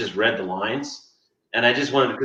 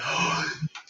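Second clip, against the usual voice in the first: mock gasp; 6 dB quieter than usual. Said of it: "She was like".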